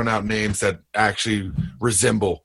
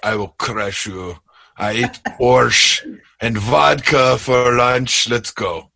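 put-on Eastern European accent; slower than usual. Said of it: "that Eastern European".

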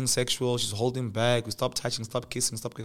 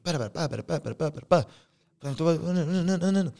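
mock rant; 5 semitones higher, much faster than usual. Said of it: "So now I'm going at her".

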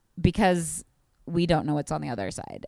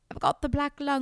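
high, put-on invalid voice; hammed-up complaint pitched high; mock sick voice; 9 semitones higher than usual. Joking with a friend about fire smoke, mock pitiful. Puts on a voice for joke line.

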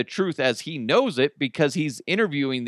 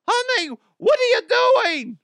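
very high, louder mock mom shriek; Mama DeHuff shriek; 5 dB louder than usual. Host capping his mom voice bit, very high and louder. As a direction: screech like the cartoon mother catching you. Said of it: "I stole the voice for Mama DeHuff".

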